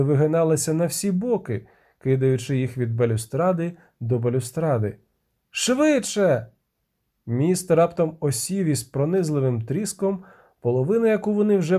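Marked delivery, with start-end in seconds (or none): 5.5-6.5 urgent shout. A narrator's reading. Urging on collapsing bridge.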